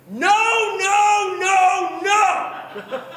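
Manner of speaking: loud, high shouted nos; father yelling no at the phone; shouting no. Retold or imitated. Father shouting no at the rental agent on the phone. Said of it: "just starts shouting".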